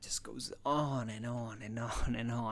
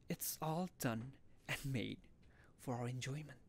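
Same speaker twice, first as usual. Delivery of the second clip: resigned monologue; 9 dB quieter than usual. Acted. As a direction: let it sink softly, phrase by phrase. Acts out a parody monologue.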